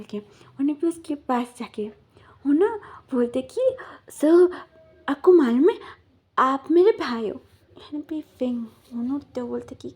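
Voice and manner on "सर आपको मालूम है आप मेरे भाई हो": loud eager announcement; calling out. Retold or imitated. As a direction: call out to him proudly. Boy announces to man, calling out. (ज़ोर से पुकारकर बताना)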